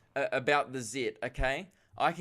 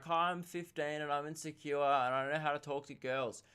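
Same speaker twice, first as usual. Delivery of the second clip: put-on insecure teen; 2 semitones higher than usual. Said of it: "It's like".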